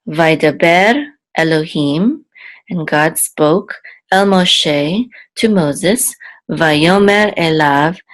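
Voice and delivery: deliberate bilingual scripture recitation, phrase by phrase; slow verse reading. Shown as a demonstration. Teacher reads the whole verse with translation, slow recitation. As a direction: read it out slowly, pausing after each phrase. We'll read it now.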